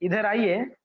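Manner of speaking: courteous, sweet call at normal pitch; मीठा, आदर भरा. Shown as a demonstration. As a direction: ask politely and sweetly. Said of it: "कितना मधुरता लगती है". (मधुर, विनम्र स्वर में)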